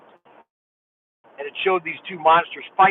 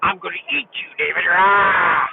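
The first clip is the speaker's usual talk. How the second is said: growly play-threat ending in a roar; Papa Bear. Pretend. Dad playing storybook bear to David, mock growl and roar. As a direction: pretend bear about to pounce, roaring. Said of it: "the story that I would tell David was Papa Bear".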